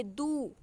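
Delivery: दू said with a long held ū; drawn-out long ū. Shown as a demonstration. Teacher lets students hear the long ū in दू. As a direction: stretch the vowel in दू to show the ū sound. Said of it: "उसी तरह अगर आप दू बोलिए".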